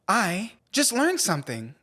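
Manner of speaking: lightly voiced kids' cartoon host jingle; Dora the Explorer. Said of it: "Why do I sound like Dora the Explorer".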